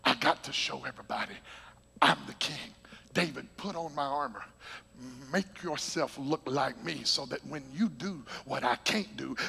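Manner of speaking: low, soft, scheming king; scheming King Saul. Retold or imitated. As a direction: hush it like a proud king plotting. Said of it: "He was all about the position".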